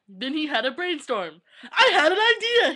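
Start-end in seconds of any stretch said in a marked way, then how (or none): 1.7-2.7 loud, high, laughing burst; excited exclamation. A narrator's reading. Narrating the vampire's excited idea, laughing. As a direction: blurt out the idea. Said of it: "he exclaimed".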